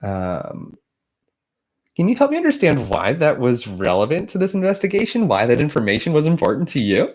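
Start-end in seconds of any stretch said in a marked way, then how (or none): 1.9-7.1 all-grins Mormon missionary. Acted. Congressman as a smiling missionary, asking Stone a question, all grins. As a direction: ask it grinning like an elder at the door. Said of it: "Just all grins".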